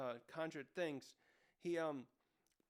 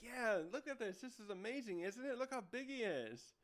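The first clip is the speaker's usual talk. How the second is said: higher-pitched mock excitement; excited showing-off; 6 semitones higher than usual. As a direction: gush like an eager friend showing something off. Acts Luffy showing off friend excitedly.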